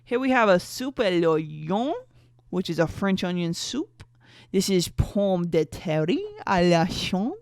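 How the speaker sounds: loud, slow mock-French accent; horrible French accent. Woman unveiling French dishes to boyfriend, bad French accent. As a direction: present each dish in a bad French accent. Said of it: "my horrible French accent".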